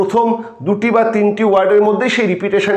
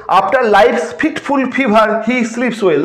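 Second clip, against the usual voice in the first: verse read slowly, word by word; slow recitation; much slower than usual. Shown as a demonstration. Teacher reading the example line slowly to students. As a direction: dwell on each f sound. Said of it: "next হচ্ছে".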